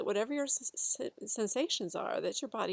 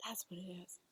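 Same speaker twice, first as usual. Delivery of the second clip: realization; 6 dB quieter than usual. Retold or imitated. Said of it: "like going".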